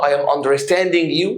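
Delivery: "I am remembering you" dragged slowly, questioning; slow doubtful rise on you; mock wrong form. Shown as a demonstration. Teacher showing students the wrong form, slow. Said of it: "مفيش حاجة اسمها كده".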